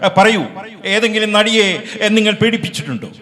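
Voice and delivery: a hint of the noble film hero scolding; Prem Nazir impression. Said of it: "Prem നസീർ". (Prem നസീറിന്റെ ശബ്ദത്തിൽ ഉയർന്ന നായക അനുകരണം)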